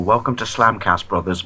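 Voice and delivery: slow, put-on English accent; best attempt at an English accent; drawn-out mock English welcome. Shown as a demonstration. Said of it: "say in your best English accent".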